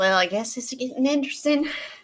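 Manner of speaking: quiet, grumbled mutter under the breath. Speaking in character as the husband drags himself outside: muttering under breath. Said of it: "I'm gonna mutter under my breath".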